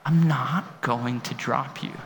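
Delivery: gentle reassurance. Retold or imitated. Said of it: "he was going".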